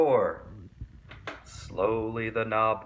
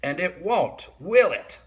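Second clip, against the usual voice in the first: menacing witch threat; 6 semitones higher, 4 dB louder than usual. A narrator's reading. Swamp warning the class.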